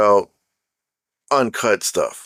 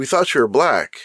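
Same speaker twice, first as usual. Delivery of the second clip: ordinary talk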